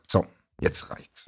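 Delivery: breathy whisper, winding up. Real, not acted. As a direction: whisper it as if done. Mock ending, unvoiced.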